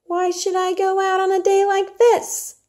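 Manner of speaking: put-on high, sulky, petulant girl; sulky Mary. Mary refuses to go out into the dull day, petulant. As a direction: whine at the weather.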